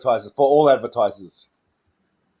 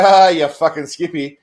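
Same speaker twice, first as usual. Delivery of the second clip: jovial ribbing; 5 dB louder than usual. Shown as a demonstration. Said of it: "it's all right".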